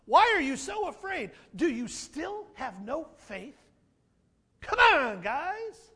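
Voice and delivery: rebuking. Retold or imitated. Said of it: "Can't you just hear him kind of rebuking them?".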